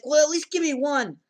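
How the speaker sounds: insist, teasing him to say it; light hammed-up pushy girlfriend; mock demanding girl.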